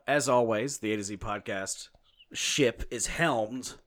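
drawn-out, building host introduction; show announcer. Acted. Host introducing the podcast crew, mock-grand announcer. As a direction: present them with mock grandeur.

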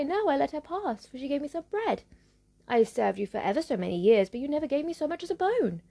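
a hint of a resentful dog. Dog replies to witch.

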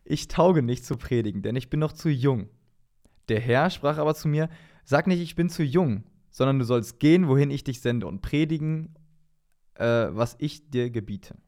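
measured, deliberate Bible reading; scripture reading. Acted. Reading Jeremiah's call to a podcast partner, scripture reading. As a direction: read the verses out with solemn emphasis. Reads Bible passage aloud.

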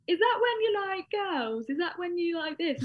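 high, slow puzzled mum voice; hammed-up baffled mother guessing; confused mum. Mum guesses what asexuality means, high and slow. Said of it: "And she was like".

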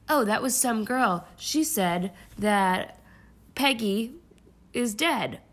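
cheesy wooden actor line; stilted old movie melodrama. Pretend. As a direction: read it like bad TV acting. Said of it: "probably the worst acting that we see".

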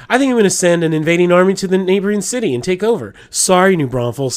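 lightly hammed-up Arkansas accent; mock Arkansas accent. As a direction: imitate a friend declaring conquest in an Arkansas accent. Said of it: "exaggerate her Arkansas accent".

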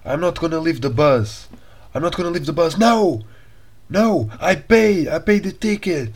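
high, loud mock shouting in English, slow at first; hammed-up furious foreigner yelling back; angry English tourist. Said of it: "o homem começou, tipo, a dizer".

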